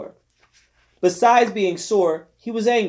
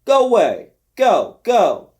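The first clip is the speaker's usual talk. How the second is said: higher, louder angry yell; 4 semitones higher, 6 dB louder, slower than usual. Acted. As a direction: drive him off with your voice. Manny keeps yelling him away.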